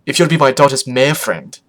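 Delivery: put-on loud accented declaration; Photo Finish. Mother sizing up daughter's friend, mildly loud exclamation. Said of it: "Photo Finish cried".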